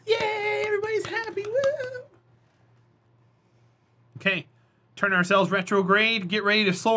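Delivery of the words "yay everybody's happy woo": excited cheering. Real, not acted. Cheering after making it back.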